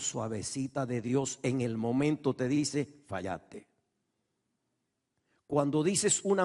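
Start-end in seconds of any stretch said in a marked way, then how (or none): 3.1-3.7 hushed, low and soft; soft voice of God. Acted. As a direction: say it gently like a quiet inner voice. Voz suavecita de Dios dice. (voz suave y baja, casi en susurro)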